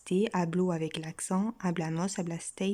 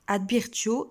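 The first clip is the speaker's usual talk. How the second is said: "advirtio" said higher, with the I in place of E brought out; changement de voyelle appuyé; 3 semitones higher, 3 dB louder, slower than usual. Shown as a demonstration. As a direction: stress the changed vowel in "advirtio", pitch lifting. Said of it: "on remarque que le, c'est plus un E, c'est un I". (« advirtio » articulé avec insistance sur le I qui remplace le E)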